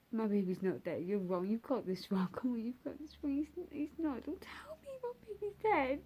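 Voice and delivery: retold tearful protest, pitch climbing sharply; distraught denial. Mother refusing the doctor's news, distraught denial. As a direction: plead in disbelief, voice rising as it goes. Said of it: "I'm crying, I'm screaming, I'm like".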